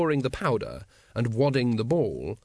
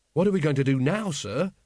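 anxious; 3 semitones higher than usual. Acted. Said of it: "said Carrot anxiously".

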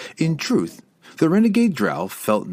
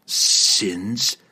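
spat back. Acted. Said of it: "Drizzt spat back".

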